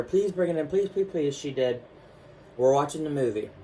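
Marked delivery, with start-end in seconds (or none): 0.0-1.3 begging. Retold or imitated. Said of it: "I begged her".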